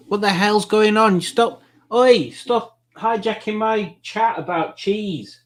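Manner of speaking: high, mock-indignant telling-off. Host mock-scolding Julie for hijacking cheese chat, high-pitched.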